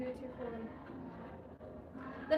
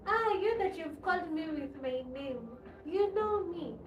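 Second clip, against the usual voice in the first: raised, delighted exclamation; excited recognition; 3 semitones higher, 3 dB louder than usual. Real, not acted. Delighted a viewer named her.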